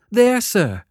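put-on high, frightened boy; timid child. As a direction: explain timidly. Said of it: "I timidly explained".

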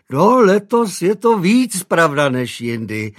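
a hint of a fussing housemaid; eager maid. A narrator's reading.

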